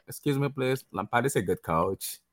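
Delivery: badly imitated British accent, slow and girlish; Harry Redknapp. Shown as a demonstration. Guest asked for an English accent, girlish failed attempt. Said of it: "try and do, like, a Harry Redknapp accent".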